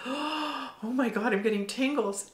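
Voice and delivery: hushed astonished exclamation; awed gasp. Retold or imitated. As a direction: let the tingles catch your breath. Gasping in awe at body tingles.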